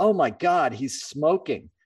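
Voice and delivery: appalled society-lady tone, high, slow, disgusted. Retelling a society lady's reaction to a musician smoking: imitating a disgusted society lady. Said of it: "she was completely disgusted".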